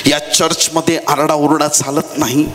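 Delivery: drawn-out, mildly stern telling-off; mock scolding. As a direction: imitate disciples shushing a beggar, stretching the words. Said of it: "शिष्य बर्तिमाईला दटावतायत".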